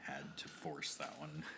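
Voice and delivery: whispered through a laugh; hushed confession, laughing. Retold or imitated. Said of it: "she said".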